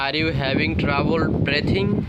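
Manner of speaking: very slow, rising on "question"; slow model question. Shown as a demonstration. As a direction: ask it word by word for learners. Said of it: "এটা বলবো এইভাবে".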